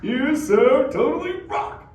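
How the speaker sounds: lightly voiced slow surfer turtle; turtle catchphrase. Shown as a demonstration. Turtle showing the kids what he'll say, slow. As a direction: hand the crowd its cue line. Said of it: "if a turtle says".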